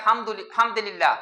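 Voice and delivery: حمدللہ said with the opening al dropped, as a casual reply; teacher demonstrating the slurred reply form حمدللہ, clipped pronunciation; clipped hamdulillah demo. Shown as a demonstration. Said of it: "جواب دیا جاتا ہے".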